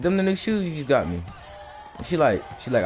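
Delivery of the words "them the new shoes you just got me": shouted protest. Retold or imitated. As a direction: yell it back at her, defending yourself. Kid yelling back at his mom.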